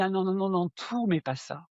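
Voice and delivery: a retold cry of dismay; alarmed refusal. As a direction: recoil from the idea in mock horror. Refusing to become a medium.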